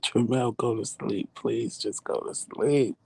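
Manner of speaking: plead, drawing out the final words; coaxing plea. Retold or imitated. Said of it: "After about coaxing him".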